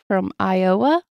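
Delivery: "Iowa" drawn out with a rising end; stress on Iowa. Real, not acted. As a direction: lean on the O in "Iowa". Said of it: "You put a lot of emphasis".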